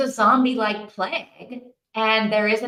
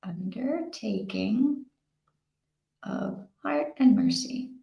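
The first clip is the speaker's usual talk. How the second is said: whispered; 4 dB quieter, slower than usual. Real, not acted. Whispering title while writing.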